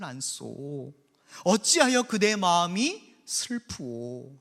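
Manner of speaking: slow, tender, melodramatic comforting; like a line from a melodrama film; husband gently consoling his weeping wife; sweet talk. Acted. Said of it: "정말 스윗하게 얘기를 해주는데도".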